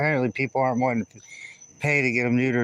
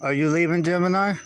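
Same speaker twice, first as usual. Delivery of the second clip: high pet talk; 6 semitones higher, 3 dB louder than usual. Real, not acted. Calling to a cat.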